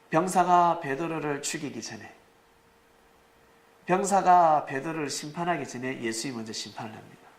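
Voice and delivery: ordinary talk, nothing marked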